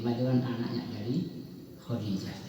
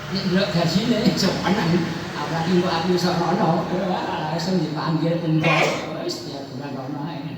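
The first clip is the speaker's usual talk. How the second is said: louder, excited greedy daydream; mock-eager father dreaming of the Holy Land; 2 semitones higher, 5 dB louder than usual. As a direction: get carried away by the big salary. Speaker mocks his own greed.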